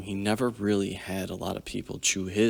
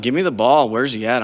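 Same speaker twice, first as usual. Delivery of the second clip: retold pumped-up call; 3 semitones higher, 8 dB louder than usual. Hyped up for the rematch.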